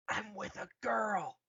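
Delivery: bragging to mom and dad; proud shout. Acted. Kylo shouts to his parents.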